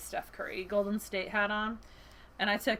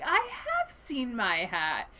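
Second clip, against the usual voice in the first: slow, higher, drawn-out acted revelation; dawning realization; 4 semitones higher, slower than usual. Bear realizing it has seen its hat, mildly astonished. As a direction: let the realization stretch out. Retelling bear's sudden epiphany.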